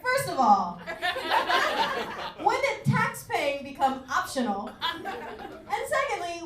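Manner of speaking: usual speaking voice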